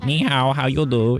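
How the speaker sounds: put-on stereotyped Asian accent, pitched high; mock Asian accent. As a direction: imitate a caricatured Asian greeting accent. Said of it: "so many of us think the Asian accent".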